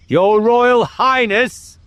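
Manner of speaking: slow, high and forbidding; stern royal address. Acted. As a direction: draw out the title in anger. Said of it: "in a voice of thunder".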